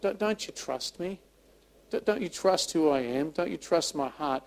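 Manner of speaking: soft, halting pleading questions; gentle, imploring voice of God; tender appeal. Acted. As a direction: quietly implore like a loving father. God's imagined tender appeal.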